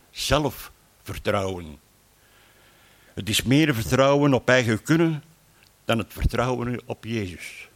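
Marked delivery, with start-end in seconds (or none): 0.1-1.8 zelfvertrouwen drawn out very slowly, each part weighed; stress on zelfvertrouwen. Shown as a demonstration. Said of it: "het woord zegt het zelf".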